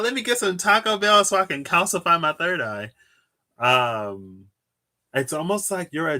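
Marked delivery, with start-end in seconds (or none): 0.0-2.9 mocking quote. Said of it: "Talking about".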